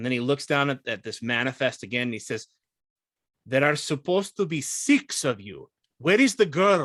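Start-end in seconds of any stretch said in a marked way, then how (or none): 3.5-6.9 slightly annoyed, mildly irritated, insistent tone. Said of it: "gets a little irritated".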